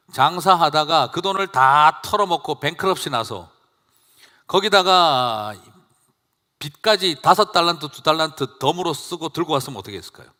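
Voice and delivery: loud, emphatic preaching that builds; preaching at full force. Acted. Pastor pressing the congregation with the parable, loud emphatic preaching. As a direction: drive the hypothetical home, pressing hard. Preaching climax, rising intensity.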